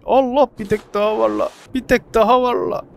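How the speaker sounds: high, loud delighted cry; excited discovery. Real, not acted. Gamer spotting another creature, excited high cry.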